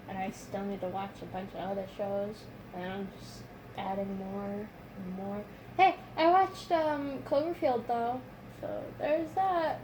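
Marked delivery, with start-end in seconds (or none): 5.8-9.8 excited. Real, not acted. Proud announcement.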